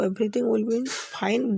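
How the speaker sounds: very slow, each word spelled out; slow teaching demo. Shown as a demonstration. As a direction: say it slowly for learners to copy. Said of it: "आप उसको". (धीमे-धीमे, साफ़ उच्चारण में)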